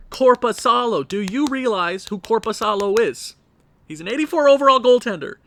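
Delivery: loud, high rant at the players; exasperated rant. Real, not acted. Fan ranting at his team, loud and exasperated. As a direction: vent furiously at your team.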